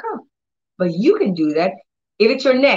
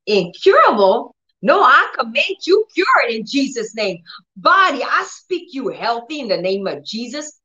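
defiant command; 4 semitones higher than usual. Shown as a demonstration. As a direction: scoff at the disease and command it cured. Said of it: "You say".

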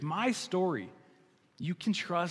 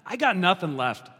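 Peter pleading louder, a touch higher; desperate plea; 4 semitones higher, 5 dB louder than usual. Acted. Sinking Peter begs Jesus for help, louder desperate plea. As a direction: cry out for help as you sink. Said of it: "he reaches a hand and says".

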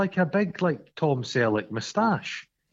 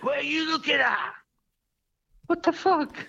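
thug's rage; 14 semitones higher than usual. Retold or imitated. Glasgow guy imitated.

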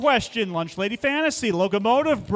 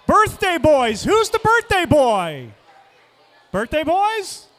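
loud, cheerful call to the room; 3 semitones higher, 5 dB louder than usual. Real, not acted. Calling out to birthday team.

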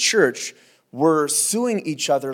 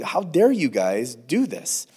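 stern rebuke; slower than usual. Retold or imitated. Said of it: "very stern language".

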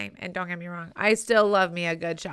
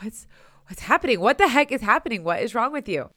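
flustered husband; 6 dB louder, faster than usual. Retold or imitated. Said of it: "he gets really overwhelmed".

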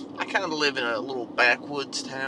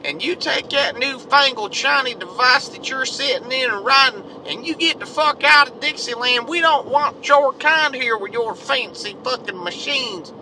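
much higher, louder hammed-up hick yelling; angry rednecks chasing a driver off their land, loud mock hick; 12 semitones higher, 6 dB louder than usual. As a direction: bark at the stranger like a territorial yokel. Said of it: "And they're like".

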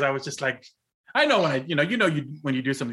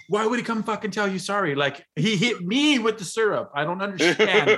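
higher, mock-outraged sister voice; mock furious sister; 6 semitones higher than usual. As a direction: play the sister's indignant rant, half laughing. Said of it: "my sister so infuriated".

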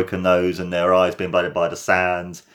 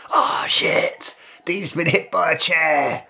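mock shocked commentary; 6 semitones higher than usual. Acts out shocked match commentary.

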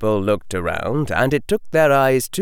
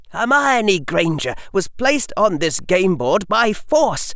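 forceful argument; 14 semitones higher than usual. A narrator's reading. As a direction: press the case harder and harder. Harry argues before council.

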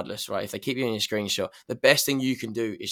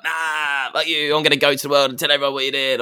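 mock outrage; 4 dB louder than usual. Upset friend threatening to tell everyone, mock outrage. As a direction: put on a mildly outraged accuser.

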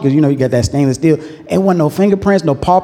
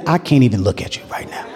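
parent's cold line; 4 semitones lower, 5 dB quieter, faster than usual. Retold or imitated. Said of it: "anybody's parent ever did that".

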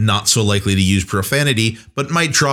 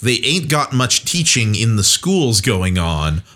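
unschooled Southerner, lightly put on; uneducated Southern commoner. Shown as a demonstration. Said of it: "somebody who down south who don't talk too good".

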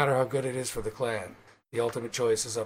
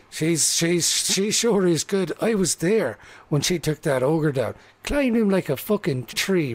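admiring halfling; 3 semitones higher, 5 dB louder than usual. Acted. Halfling tells the rogue how Magma beat the ogre, excitedly. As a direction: gush about her like a fan.

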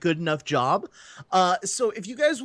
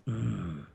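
low, soft mock-sexy hum; a hammed-up seductive murmur; sexy grunt; 12 semitones lower, 8 dB quieter than usual. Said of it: "Are we doing, like, sexy grunting now?".

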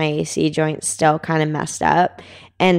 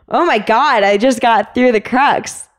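retold excited yell; 5 semitones higher than usual. Climber calling down to partner past the crux, mock yell. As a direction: call down in half-voiced amazement. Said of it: "I yelled down at him".

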